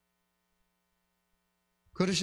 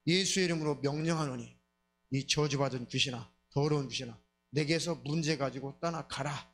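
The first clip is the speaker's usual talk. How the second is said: bold command. Shown as a demonstration. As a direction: cast it out boldly in Jesus' name. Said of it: "과감하게".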